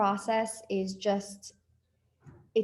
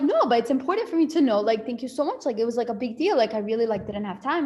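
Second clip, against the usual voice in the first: insistent gushing; 2 semitones higher, 5 dB louder than usual. Retold or imitated. Insisting to husband, retold.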